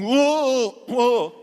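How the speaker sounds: put-on high, loud whooping yell of a hyper child; imitated scream. Retelling the boy running round the room, a loud imitated whoop. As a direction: belt out a kid's wild whoo on a sugar high. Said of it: "screaming at the top of his voice".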